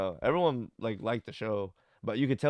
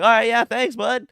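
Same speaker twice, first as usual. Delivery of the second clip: Theo's easy reply; 13 semitones higher, 12 dB louder than usual. Retold or imitated. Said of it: "Theo will be like".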